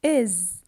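"is" with a voiced z; iz ending. Shown as a demonstration. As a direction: buzz the end of "is". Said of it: "I pronounce the S".

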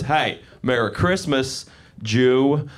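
slow greeting with the hidden jab spoken aloud; aggressive greeting. Retold or imitated. Southerner saying the unsaid part to him, pointedly aggressive. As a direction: land "Jew" after a pointed pause. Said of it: "what they weren't saying in that pause was".

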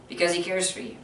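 quiet, gentle restatement; quiet reassuring echo; soft repeat. Shown as a demonstration.

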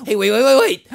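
loud, insistent plea to hold on; urgent interjection. Acted. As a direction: cut in loudly, desperate to be heard. Pleading to be heard out.

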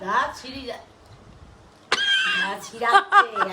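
high laughing wince at the cold; teeth aching from cold. Real, not acted. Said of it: "দাঁত সিঁড়িয়ে যাচ্ছে".

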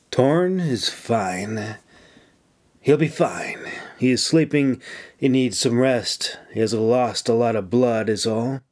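calm his worry kindly; reassuring. Acted. Officer gently reassuring a friend that the wounded man will live. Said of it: "she assured him".

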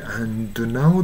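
"and now" with the d clearly released; distinct words. Shown as a demonstration. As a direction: keep "and now" as two clear words, d audible. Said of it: "単語がはっきり意味がわかるように".

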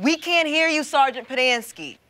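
insistent, projected rebuke; demanding. Acted. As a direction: press the witness to be heard. Lawyer pressing witness to answer audibly.

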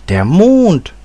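high, loud cry of amazement; astonished exclamation. A narrator's reading. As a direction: echo it back in astonishment, pitch soaring. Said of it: "rief Ursel".

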